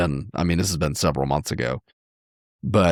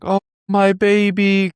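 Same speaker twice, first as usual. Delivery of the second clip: high, slow, wailing mother; mom's anguished cry; 5 dB louder, slower than usual. Retold or imitated. Mom crying out to her reanimated daughter, high and wailing. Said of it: "the mom is like".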